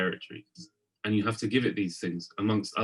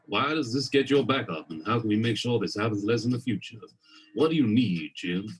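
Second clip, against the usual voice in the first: a lightly put-on American accent, friendly and curious; fake American accent. Talking gently to your own chimp Jim, in a weird fake American accent. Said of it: "in a weird, fake American accent".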